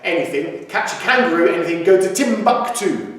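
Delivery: "Catch a kangaroo" with every consonant distinct; clear enunciation. Shown as a demonstration. Teacher modelling funny lyrics for singers, clear enunciation. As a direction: carefully articulate "Timbuktu", each T sounded. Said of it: "enunciation's got to be super clear".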